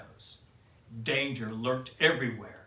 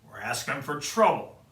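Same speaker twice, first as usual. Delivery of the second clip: huffy; 5 dB louder than usual. Acted. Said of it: "huffed Grumpy".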